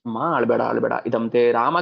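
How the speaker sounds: loud bitter outburst; grieving mother. Acted. Kausalya bitterly answering Bharata. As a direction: lash out through grief.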